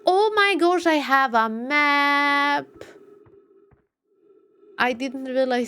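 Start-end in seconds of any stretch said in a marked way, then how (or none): 0.0-2.7 big drawn-out realization; amazed discovery. Real, not acted. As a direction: exclaim it in astonishment. Sudden discovery of a map.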